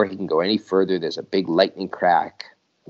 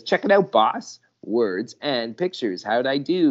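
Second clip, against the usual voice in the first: eager recruit; 5 semitones higher than usual. Acted. Dib shows off to boss.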